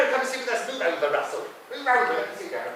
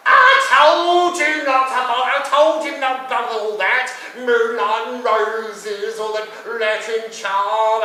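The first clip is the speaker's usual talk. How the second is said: exasperated scolding; 5 semitones higher, 9 dB louder, slower than usual. Acted. Scolding the waiter's romance advice.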